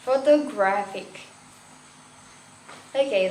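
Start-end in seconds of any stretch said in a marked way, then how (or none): 0.0-1.3 "Photographic" with the weight on GRAPH; stress on third syllable. Shown as a demonstration. Teacher repeating the example, "Photographic" stressed on third syllable. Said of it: "on the third".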